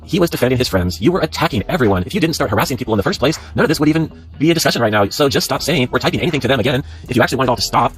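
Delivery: punchy, insistent read-aloud; reading a stern post. Acted. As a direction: read it out as a firm telling-off.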